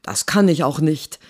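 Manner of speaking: hissed. Acted. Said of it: "zischte er zurück".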